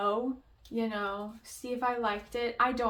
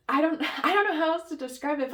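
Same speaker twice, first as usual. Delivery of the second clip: higher, louder and fast, laughing through the words; laughing helplessly; 6 semitones higher, 7 dB louder, faster than usual. Real, not acted. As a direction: laugh it off while fumbling for words. Laughing while failing to describe.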